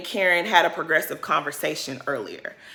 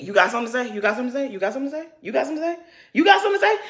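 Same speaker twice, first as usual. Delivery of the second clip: building confrontation; 4 semitones higher, much faster than usual. Retold or imitated. Candace confronts each woman.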